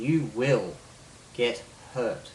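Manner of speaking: "you will" punched, "get hurt" set apart; deliberate weight on "you will"; emphasized power words. Shown as a demonstration. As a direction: stress "will", then pause before "get hurt". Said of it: "words that I'm putting emphasis on".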